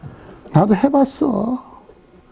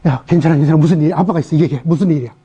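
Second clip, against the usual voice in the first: comforting father; 6 semitones lower, faster than usual. Retold or imitated. Father comforting crying daughter.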